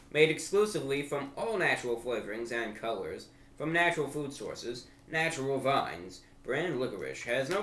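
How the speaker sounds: sweeping, swooping announcer intonation; mock ad read. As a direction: sell the licorice like a gourmet commercial. Reads package blurb as mock ad.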